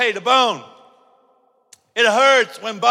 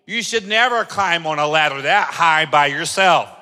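judging nurse. Retold or imitated. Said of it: "what if they stopped and said".

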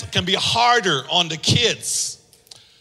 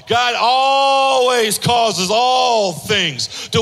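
preaching shout; 3 semitones higher, much slower than usual. Acted. Preaching at full force.

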